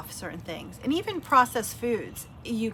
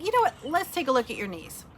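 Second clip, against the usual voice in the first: much higher, bright chirpy take on the therapist; high-pitched therapist; 5 semitones higher than usual. Retold or imitated. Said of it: "So one day she's like".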